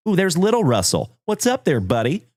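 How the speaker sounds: light up at seeing him; excited high greeting. Real, not acted. Excited spotting a viewer.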